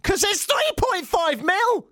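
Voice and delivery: high, drawn-out mock scream; exasperated yell. Host ranting about the tiny headphone jack, exasperated yell. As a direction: wail it slowly in comic exasperation.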